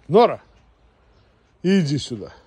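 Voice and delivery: loud call across yard; calling a dog. Real, not acted.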